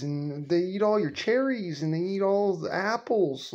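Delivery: mock childish protest; whiny kid voice. Grandson whining excuses to grandma about crows. Boy arguing back.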